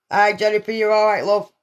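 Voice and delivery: numb-mouthed slurred greeting; words slurring, mouth gone numb; talking funny. Real, not acted. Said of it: "sorry if I'm talking funny".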